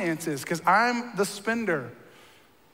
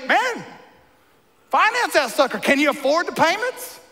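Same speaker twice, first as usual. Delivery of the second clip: a touch of redneck twang, pitched higher and louder; 7 semitones higher, 5 dB louder than usual. Retold or imitated. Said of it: "I always talk like that".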